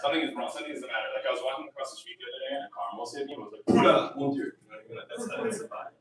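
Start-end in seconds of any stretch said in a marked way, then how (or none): 3.7-4.4 mock startled French exclamation. Car almost hit him.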